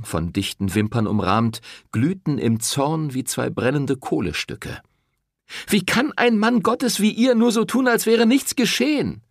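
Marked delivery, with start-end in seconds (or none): 5.7-9.2 high, loud furious reproach; angry accusation. A narrator's reading. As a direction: shame him to his face. Woman confronting the priest.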